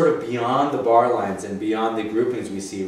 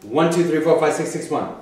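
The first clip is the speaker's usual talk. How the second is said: even count, six repeated; counting demo; 2 semitones higher than usual. Shown as a demonstration. Teacher modelling the count again, even and clear. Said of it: "Can you say that?".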